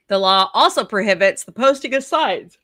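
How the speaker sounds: reading through a yawn; words dragged by a yawn. Real, not acted. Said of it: "It should prohibit me from yawning".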